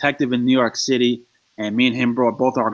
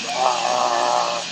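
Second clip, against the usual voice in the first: long, mock gobbling groan; drawn-out noise of men devouring food; messy eating noise; 3 dB quieter than usual. Telling friends about men eating with no hands, long mock guzzle.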